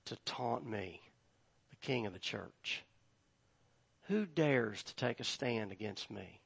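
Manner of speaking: low, soft, measured kingly challenge; King Jesus's challenge. Acted. Preacher as Jesus the king answering those who taunt him, kingly challenge. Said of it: "in the voice and in the words of David".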